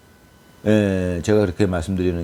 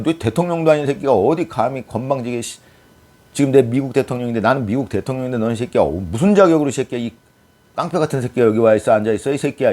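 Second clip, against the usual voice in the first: mock outrage, higher and mostly raised; 트럼프; 5 semitones higher, 3 dB louder than usual. Imagined US president berating an unworthy visitor, mock outrage. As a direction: play an affronted president laying into an impostor. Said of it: "제가 트럼프였으면 열받았을 것 같아요".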